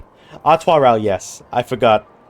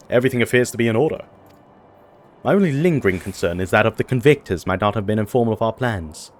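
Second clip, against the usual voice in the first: put-on British accent. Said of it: "are you doing a British accent now?".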